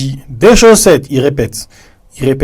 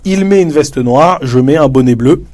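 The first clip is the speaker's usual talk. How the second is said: example answer; 2 semitones higher than usual. Shown as a demonstration. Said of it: "Le deuxième joueur doit dire".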